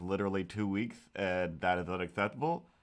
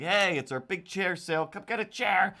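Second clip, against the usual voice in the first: higher, pitchy salesman call; mock sale ad; 8 semitones higher than usual. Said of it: "It was just like".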